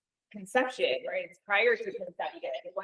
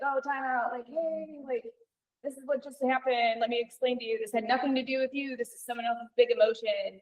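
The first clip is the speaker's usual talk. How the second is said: higher, lilting fairy helper voice; integration fairy voice; 4 semitones higher than usual. Pretend. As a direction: play a gentle little fairy calling time out to a child. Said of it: "an integration fairy that was".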